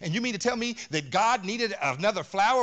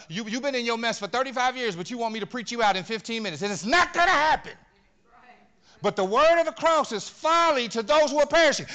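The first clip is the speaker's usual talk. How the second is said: lightly voiced fellow preacher, rising louder toward the end; quoting another preacher; 4 semitones higher, 5 dB louder than usual. Preacher quotes another preacher to the church, growing louder. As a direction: quote the other preacher, building up. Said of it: "one preacher put it like this".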